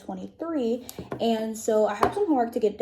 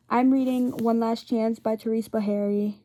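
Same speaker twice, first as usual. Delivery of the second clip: wearing a retainer; 4 dB louder than usual. Real, not acted. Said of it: "I have my retainers in".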